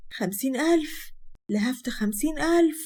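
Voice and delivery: stunned by the sum; shocked disbelief. Acted. Mother hears about fifty thousand.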